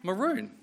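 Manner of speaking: "Maroon." as muh-ROON, high and falling; dictionary pronunciation. Shown as a demonstration. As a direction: pronounce "Maroon." with a long oo, like moon. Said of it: "all said it's pronounced the same way".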